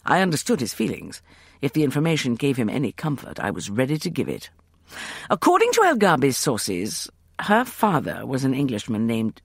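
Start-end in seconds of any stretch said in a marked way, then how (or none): none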